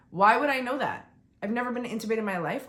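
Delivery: loud, high-pitched exasperated retort; indignant. Retold or imitated. Patient answering back about her surgery, indignant. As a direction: throw it back in outraged disbelief. Indignant reply to doctor's excuse.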